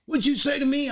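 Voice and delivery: high, loud mock accent, shouting; hammed-up foreign bully threatening; mock Swiss yelling. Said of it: "the way he was talking to me".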